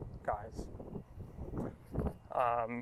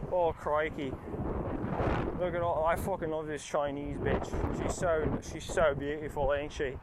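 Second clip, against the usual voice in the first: put-on a light, half-hearted Irish accent; mock the actor's heavy Irish accent, barely attempted; bad Irish accent. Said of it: "I can't do an Irish accent".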